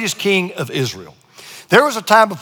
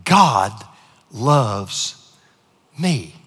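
tender; 9 semitones lower, 3 dB quieter, much slower than usual. Shown as a demonstration. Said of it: "say that with me right now".

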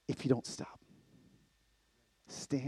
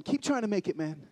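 retold encouragement; 5 semitones higher than usual. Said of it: "looking at Danny, going".

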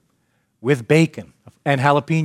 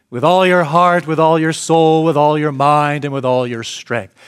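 solemn recitation; 4 dB louder than usual. Acted. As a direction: proclaim it like an ancient creed. Reciting the Shema.

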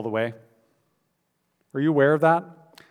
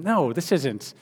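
arguing back; 3 semitones higher than usual. Retold or imitated. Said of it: "began to argue with him".

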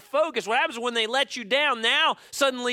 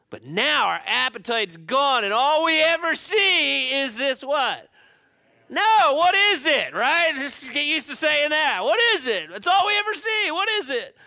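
higher, louder, hammed-up whining; mock exasperated complaint; 6 semitones higher, 4 dB louder than usual. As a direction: shout your disgust at the same food. Acted complaint, shouting.

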